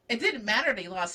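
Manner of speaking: normal talking voice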